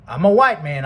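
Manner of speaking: loud acted declaration; retold yell. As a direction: yell it like a plantation boss. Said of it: "I yelled at them".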